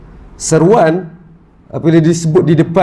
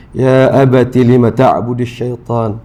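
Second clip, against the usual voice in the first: gentle plea; slower than usual. Retold or imitated. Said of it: "bercakap secara lembut".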